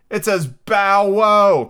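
high, loud, stretched-out bow wow; crying out. A narrator's reading. Daisy proudly explaining the tree's bark, loud high cry. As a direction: belt it out high and slow. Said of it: "cried the Daisy".

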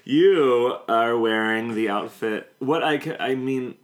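slow words broken by laughter; laughing. Real, not acted. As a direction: talk through the giggles. Laughing while talking.

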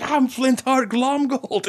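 high, drawn-out Scottish cartoon villain; Flintheart Glomgold, Scottish accent. Amnesiac villain declares who he is, exaggerated Scottish accent. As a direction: proclaim it slowly in a hammed-up Scottish accent. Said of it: "the Scottish accent comes back".

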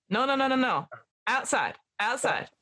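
put-on librarian scolding in an American accent. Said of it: "Oh, sorry, American accent".

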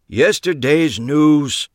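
slow, scornful and loud; old man scoffing at the news; dismissive snort. A narrator's reading. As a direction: brush it off with contempt. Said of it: "Max snorted".

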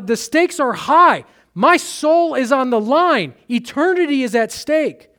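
desperate outcry. Pretend. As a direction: cry out as a soul locked out. Voiced rejected soul crying out.

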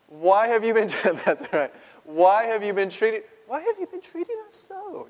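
high, loud pleading mom; upset mother. Acted. Mary to the boy Jesus, high pleading. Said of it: "So Mary says to him".

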